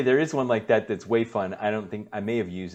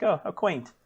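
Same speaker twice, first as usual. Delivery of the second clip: mock British condescension; 7 semitones higher than usual. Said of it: "and be like".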